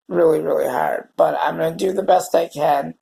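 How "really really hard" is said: emotional voice. Real, not acted. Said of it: "my emotional voice is back".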